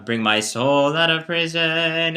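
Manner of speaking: free-rhythm chanted speech, slowed; speak-chant it freely; talking pace. Shown as a demonstration. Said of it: "in a very talking pace".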